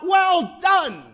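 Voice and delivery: high, loud, triumphant shout; ringing pulpit cry; called-out welcome. Acted. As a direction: proclaim it as the climax of a sermon. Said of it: "call out".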